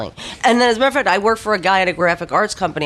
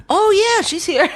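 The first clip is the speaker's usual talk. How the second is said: much higher, sing-song cheerful reply; Greek wife on the phone; 14 semitones higher than usual. Retold or imitated. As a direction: chirp it brightly up high, all innocence. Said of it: "And she's like".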